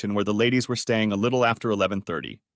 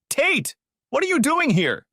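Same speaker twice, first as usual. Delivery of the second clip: shrill high startled scream, louder; 3 dB louder than usual. A narrator's reading. Bella caught by her husband, high startled scream. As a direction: shriek his name in shock. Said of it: "Bella screamed".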